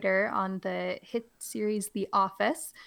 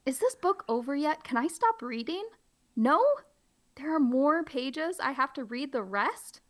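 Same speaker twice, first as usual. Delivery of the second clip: higher, whiny plea; mock pleading; 5 semitones higher than usual. Teacher begging the class to stop, mock whiny. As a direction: beg to stop reading. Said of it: "I'm really trying to play it up".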